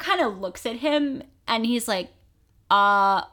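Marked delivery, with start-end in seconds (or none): 2.7-3.2 slow, bitchy mock query; shady Dumbledore. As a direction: draw it out with pointed shade. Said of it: "just, like, shady as shit".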